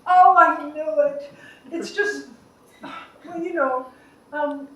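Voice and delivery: hesitant caregiver, trailing into worry; Rachel. Acted.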